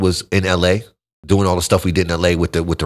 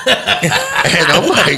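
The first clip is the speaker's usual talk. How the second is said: laughing; 10 semitones higher, 5 dB louder, much slower than usual. Real, not acted. Laughing at the story.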